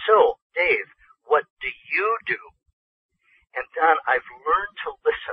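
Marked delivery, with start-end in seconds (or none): 0.1-2.4 mock pointed tone, slightly raised, swooping sing-song. Speaker retells Bertha questioning him so everyone nearby can hear, imitating Bertha's slightly raised voice. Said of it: "she raises her voice just a little so that everyone nearby can hear".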